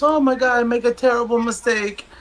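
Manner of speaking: the doctor blurting out his mistake, high; panicked doctor. Acted. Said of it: "the doctor comes in and he goes".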